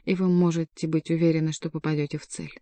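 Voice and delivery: plain reading voice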